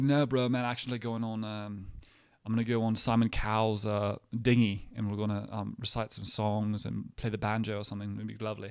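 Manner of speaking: a hint of a British accent; lightly put-on British voice; British-accented Leo. Leo telling a friend his yacht plans, mock British accent. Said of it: "doing Leo with, like, a British accent".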